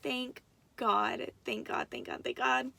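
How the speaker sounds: repeated thanks, partly whispered under the breath; retold relief. Mother hearing her newborn cry, retold hushed relief. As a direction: let the voice drop away in relief.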